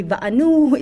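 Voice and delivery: "va'anu" with a final oo vowel; ending in "oo". Shown as a demonstration. Teacher showing possible readings, "va'anu" ending in oo. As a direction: say "va'anu", closing on a long oo. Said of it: "If there's no e".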